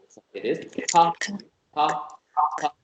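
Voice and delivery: pa said with a hard aspirated p; pa, pa, pa with a crisp p; 1 strong p sound. Shown as a demonstration. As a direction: Korean pa with a strong p. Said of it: "so it must be p".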